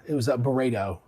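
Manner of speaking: a terrible put-on accent; T-Pop. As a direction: lightly attempt a bad imitation accent. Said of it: "That was a terrible accent".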